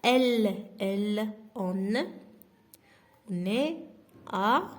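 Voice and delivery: loud. Shown as a demonstration. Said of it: "teacher modelling conjugation".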